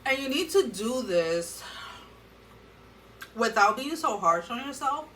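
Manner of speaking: talking with something in mouth; words around leftover food; mouth full. Real, not acted. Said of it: "I feel like I have something in my mouth".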